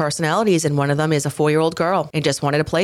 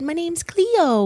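put-on sweet little girl voice, much higher, slower; 13 semitones higher than usual. Retelling a little girl answering a police officer, imitating Cleo's cute little voice. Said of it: "with this cute little sweet little voice".

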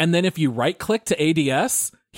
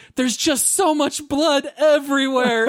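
mock shrill, very high, panicked screaming; 10 semitones higher than usual. Recounting a pirate you shot in a game, imitating her panicked screaming. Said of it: "she started screaming".

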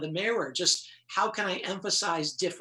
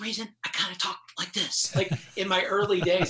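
whispered speech. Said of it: "the power of a whisper".

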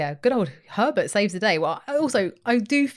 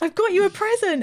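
very high, eager, bursting, thrilled excitement; 12 semitones higher than usual. Retelling a scene, the speaker voices a man arriving with a box, imitating him excited. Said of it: "and he's all excited too".

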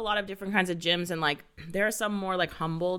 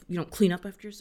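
imitated mumbling under breath. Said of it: "under his breath, mumbles".

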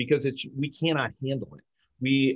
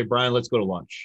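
firm, commanding delivery. Demonstrating intonation, saying a lunch suggestion to brian as a command. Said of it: "if the inflection of our voice goes up in tone".

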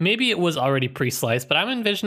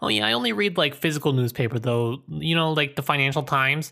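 plain

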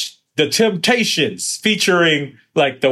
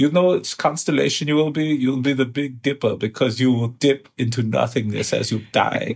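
put-on French accent; 4 dB quieter than usual. Joking to another speaker in a mock French accent. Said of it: "I guess that's French".

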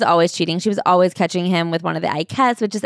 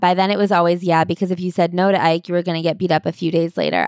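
normal talking voice

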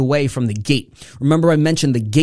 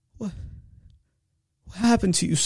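put-on gasping, much higher, quieter; 5 semitones higher, 7 dB quieter than usual. Retelling her mother finally coming out and seeing her, imitating a gasp. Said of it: "she put her hands over her mouth and gasped".

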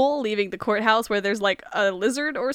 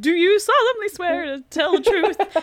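peculiar affected put-on voice, high, with odd tic; 8 semitones higher, 4 dB louder than usual. Retelling a movie clerk's line, imitating a strange vocal tick. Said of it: "she's doing the whole".

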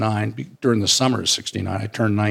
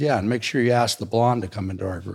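ordinary talk

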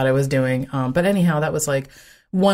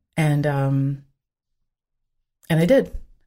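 ordinary talk

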